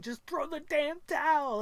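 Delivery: a coach shouting high and loud from ringside; the coach outside the ring screams to stop the fight, loud and high; screaming coach. Retold or imitated. Ringside coach yelling at the fighter's corner to quit, a high loud scream. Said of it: "the coach on the outside screaming".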